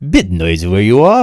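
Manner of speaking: a hint of a hammy stage actor; lightly theatrical, grand delivery; Thespian voice. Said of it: "said that in a Thespian voice".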